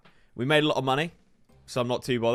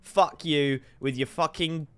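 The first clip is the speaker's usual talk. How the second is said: angry rant; 4 semitones higher, slower than usual. Real, not acted. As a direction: swear at him in real anger. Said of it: "I'm, I'm fuming".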